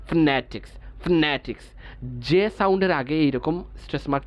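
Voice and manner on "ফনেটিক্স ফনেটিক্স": "ফনেটিক্স" as fNE-tiks, weight on ne; stress on NE. Shown as a demonstration. Teacher explaining the stress mark, "ফনেটিক্স" stressed on ne. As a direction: press a little on the ne of "ফনেটিক্স". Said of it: "নতে একটু ছাপ দিয়ে".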